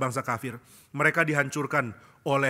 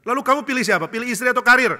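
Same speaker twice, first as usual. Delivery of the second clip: pressing devil; 10 semitones higher, 8 dB louder than usual. Acted. Devil father interrogates the lawyer.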